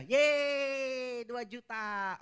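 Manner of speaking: put-on high, thrilled little-kid cheer; excited child. Boy cheering to his papa about the bike, excited. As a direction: squeal with joy at the price. Child delighted at bicycle price.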